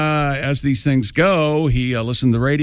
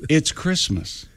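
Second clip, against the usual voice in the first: put-on old-timey movie voice; 5 dB quieter, slower than usual. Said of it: "like, old-timey movie voice when you said".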